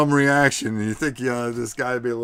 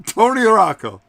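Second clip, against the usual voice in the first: announcer call; 8 semitones higher, 9 dB louder than usual. Acted. Announcer introducing the winner.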